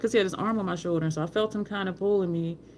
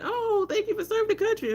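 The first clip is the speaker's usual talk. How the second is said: mock gratitude. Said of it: "So they're like".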